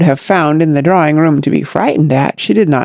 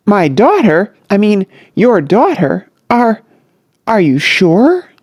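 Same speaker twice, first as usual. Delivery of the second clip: flustered; 4 semitones higher than usual. Acted. Peters flustered.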